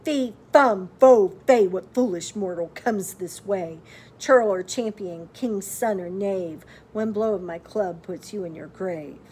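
loud booming giant chant; giant's bellow. A narrator's reading. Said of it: "He bellowed".

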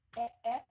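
"at" with the mouth opened on the vowel. Shown as a demonstration. Teacher repeating the model for learners, open-mouthed "at". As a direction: open up on each "at". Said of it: "mình nên há miệng".

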